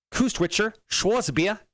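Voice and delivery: slow, drawn-out German movie villain; German villain accent. Acted. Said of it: "Whatever you do in German accent, why do you sound like a vi-, villain from a B grade German movie?".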